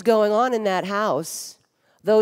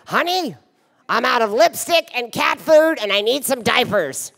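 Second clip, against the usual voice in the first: put-on high, louder sweet old-mother voice; imitating mom; 6 semitones higher, 5 dB louder than usual. Mother asking her daughter for supplies, high sweet mock voice. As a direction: ask like a sweetly demanding elderly mother. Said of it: "she'd be like".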